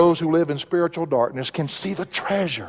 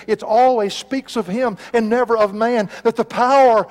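raised, driving pulpit voice; building sermon climax; 5 semitones higher than usual. Acted. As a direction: preach in a higher voice, building to emphasis.

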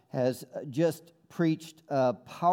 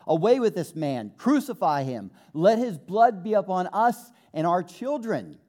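a touch louder mock crowd cry; mob cry; 3 semitones higher, 4 dB louder than usual. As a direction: voice the crowd calling for crucifixion, mildly raised. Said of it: "cried out with the chief priests".

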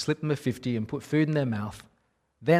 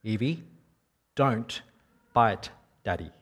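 put-on a calm, level warning to a small child; said calmly; 3 semitones lower, slower than usual. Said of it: "I said calmly".

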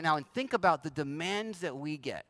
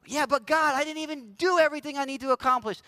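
higher, louder, anxious protest; protesting soul; 5 semitones higher, 3 dB louder than usual. Retold or imitated. Worshipper protesting to God, higher and louder. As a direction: object to God in a rush. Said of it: "soul protests to God".

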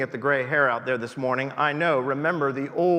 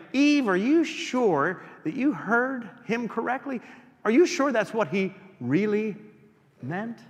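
devil's coaxing; 5 semitones higher than usual. Acted.

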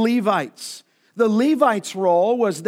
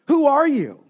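higher, louder demanding question; show of power; 5 semitones higher, 4 dB louder than usual. Retold or imitated. Jerusalem delegation challenging John, forceful demand. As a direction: press him with authority. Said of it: "a show of power".

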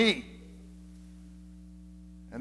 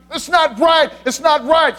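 anxious inner voice; 6 semitones higher than usual. Pretend. Voicing the anxious perfectionist's thoughts.

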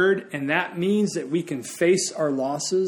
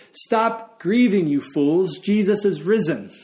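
slow, louder scolding, pitched higher; mock rebuke; 4 semitones higher, 4 dB louder than usual. Preacher imitating a funeral rebuke, as a mock scold. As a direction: scold the mourners as fools, half in mockery. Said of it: "rebuking grief in the name of Jesus".

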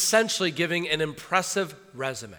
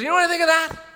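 much higher, scornful voice for Paul; Paul dismissing it; 10 semitones higher than usual. Retold or imitated. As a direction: toss it all aside with contempt. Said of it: "And he goes".

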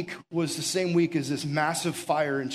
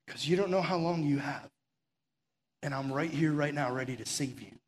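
urgent tender call. Acted. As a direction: coax someone to jump from a burning building, gently. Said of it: "What a beautiful voice".

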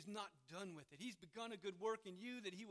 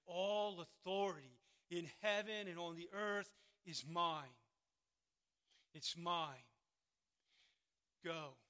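loud, commanding proclamation; thundering authority; 7 dB louder, slower than usual. Acted. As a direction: rumble it out like thunder, pausing before the last words. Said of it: "rumbles like deep thunder through the ages".

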